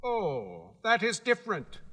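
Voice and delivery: high, proud little gatekeeper; Guardian of the Gates. Acted. Gatekeeper laying down the rules to Dorothy, high and proud. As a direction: announce your post with self-importance.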